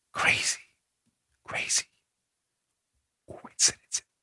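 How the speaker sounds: hushed whisper. Calling a political appointment a coincidence: whispering. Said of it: "I'm whispering".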